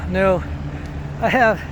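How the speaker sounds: talking mid-jog; slightly winded from running; while running. Real, not acted. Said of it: "Talking and running's kinda hard".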